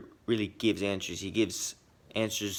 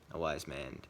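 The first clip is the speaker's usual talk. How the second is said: A wise man dropped low and softer; quieter repeat; 6 semitones lower, 7 dB quieter than usual. Shown as a demonstration. Vlogger musing on Iroh's wisdom, softly. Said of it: "sees the future".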